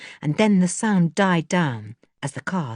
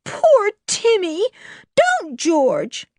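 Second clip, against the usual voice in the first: high, drawn-out pitying plea; distressed, pitched-up wail; almost in tears; 13 semitones higher, much slower than usual. A narrator's reading. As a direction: plead pityingly, close to crying. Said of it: "almost in tears".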